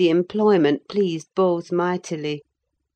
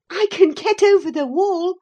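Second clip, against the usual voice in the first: put-on 1 laughing girl; 6 dB louder than usual. A narrator's reading. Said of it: "she said, laughing".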